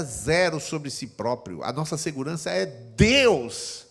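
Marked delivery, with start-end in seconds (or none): none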